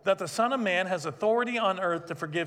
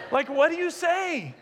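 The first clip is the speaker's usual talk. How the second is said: laughing; 8 semitones higher than usual. Real, not acted. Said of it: "these are the things I think about".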